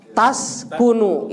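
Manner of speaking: "Tas kunu" said slowly, with the ta marked; stressed ta. Shown as a demonstration. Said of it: "kalau kamu kan depannya ta ya".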